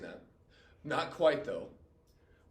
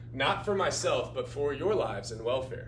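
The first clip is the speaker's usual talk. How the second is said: heroic reading; 5 semitones higher, slower than usual. Acted. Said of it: "sighs and distress".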